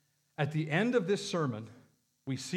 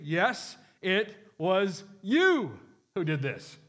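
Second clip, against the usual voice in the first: slow, deliberate, pointing words; clear accusation; 4 dB louder, much slower than usual. Retold or imitated. Peter accusing the crowd, slow and deliberate. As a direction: lay the blame plainly, word by word. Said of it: "he was saying it quite clearly".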